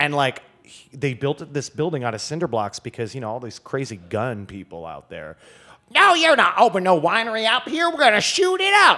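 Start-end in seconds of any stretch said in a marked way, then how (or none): 5.9-9.0 very high-pitched, loud put-on Texas accent. Retelling how locals opposed opening a winery, voicing them in a put-on Texas accent. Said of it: "that's an amazing Texas accent".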